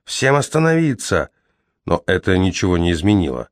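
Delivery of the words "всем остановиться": high commanding yell. Acted. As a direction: shout them down. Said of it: "заорал Кол".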